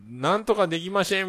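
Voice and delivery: high-pitched Hakata dialect catchphrase; Takeda Tetsuya. Retold or imitated. Quoting the actor's famous Hakata line, high-pitched impression. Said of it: "みたいな武田鉄矢のもの".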